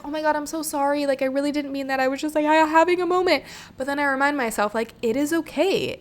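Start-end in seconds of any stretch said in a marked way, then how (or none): 0.1-3.4 high, sheepish apology; apologetic. Retold or imitated. Apologizing to God after cursing him, sheepish. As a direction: apologize fast in a higher voice. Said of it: "Then I'm like".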